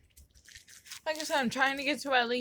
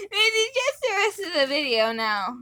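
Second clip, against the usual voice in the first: helium voice; 3 semitones higher, 3 dB louder than usual. Real, not acted. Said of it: "on freaking Helium".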